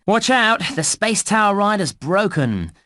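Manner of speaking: high-pitched alert to the player; urgent warning. Acted. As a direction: warn them of trouble, pitched high. Game voice warns of broken ride.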